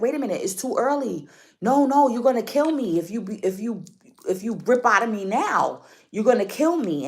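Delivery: mock panic in childbirth; panicked plea. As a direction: beg him not to tear out too early. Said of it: "she was like".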